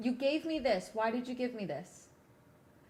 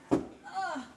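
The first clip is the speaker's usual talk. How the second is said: exasperated groan; 6 semitones higher than usual. Real, not acted. Exasperated while checking for cable.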